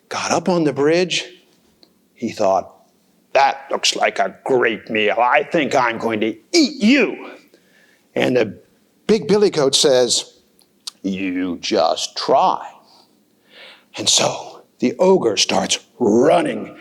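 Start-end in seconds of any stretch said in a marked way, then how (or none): 3.3-7.3 low, lightly voiced troll; greedy troll. Troll eyeing the big goat, low and greedy. 11.0-12.7 low, slow dare; defiant big goat. Acted. Big goat daring the troll, low and slow.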